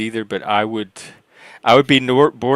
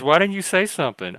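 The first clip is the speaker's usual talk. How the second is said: much higher, disbelieving repeat; incredulous; 8 semitones higher than usual. Real, not acted. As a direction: ask it again in shocked disbelief. Repeats question in high disbelief.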